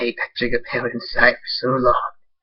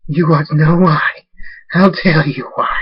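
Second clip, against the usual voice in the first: a louder, higher, slow outburst; unhinged shout; 6 semitones higher, 7 dB louder than usual. Acted. Nightstorm going insane, shouting the answer loud. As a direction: explode with the question.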